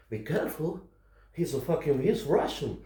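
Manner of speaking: put-on hushed caution from the girlfriend; imitated quiet warning. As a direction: warn him under your breath. Girlfriend quietly warns her man.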